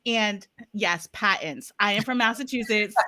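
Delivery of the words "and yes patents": patents said with a Boston accent. Real, not acted. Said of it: "my Boston accent".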